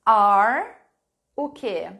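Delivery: "are" punched loud, then an open question; trailing prompt. Shown as a demonstration. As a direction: leave the sentence hanging for students. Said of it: "a frase que eu quero que vocês completem".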